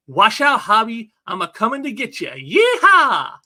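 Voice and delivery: loud, high whooping battle cry; gung-ho cowboy holler. Acted. Hero swinging off to get Hobby, exuberant cowboy holler. Acting hero's gung-ho charge with yeehaw.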